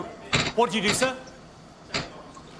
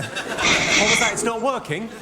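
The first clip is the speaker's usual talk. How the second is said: mock self-pity; 4 semitones higher, 4 dB louder, slower than usual. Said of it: "Sounds a bit tragic when I say".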